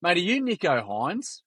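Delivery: put-on high, slow question as the kid; incredulous retold question. Kid jumps in on the player, high slow questioning. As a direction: draw it out high, checking who this is. Acts kid jumping in to ask.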